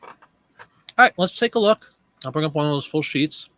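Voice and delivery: talking while chewing; words round a bite of food; mouth full. Real, not acted. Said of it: "Sorry, Mom always said, "Don't talk with your mouth full".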